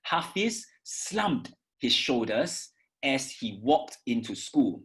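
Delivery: slow, slumped stressed; slow model read. Shown as a demonstration. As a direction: read it slowly, stress the verbs. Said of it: "I'm gonna read this for you".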